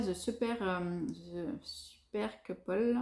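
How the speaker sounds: English brand name said slowly with a heavy French accent. Real, not acted. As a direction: sound out The Super Couple haltingly with French vowels. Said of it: "avec mon accent, pourri en anglais".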